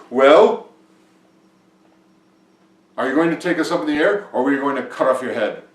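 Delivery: loud, fast ultimatum; threatening demand. A narrator's reading. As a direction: demand an answer loudly, rattling off the threat. King's party threatens Vinko.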